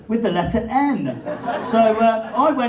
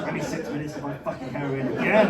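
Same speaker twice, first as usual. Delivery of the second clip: weary complaint; 6 semitones lower than usual. Pretend. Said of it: "a boast or a complaint".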